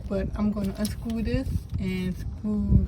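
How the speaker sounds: straining while wedged in; working in a tight spot; cramped under van. Real, not acted. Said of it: "really tight under here".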